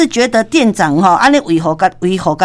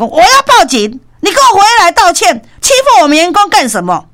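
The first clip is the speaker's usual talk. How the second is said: angry threat; 8 semitones higher, 4 dB louder than usual. Retold or imitated. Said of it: "即摆这个店长就讲".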